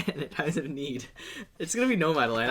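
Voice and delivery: soft, earnest car-ad pitch; solemn hard sell ad read; commercial voice. Pretend. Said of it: "It's like you're trying to sell me a car".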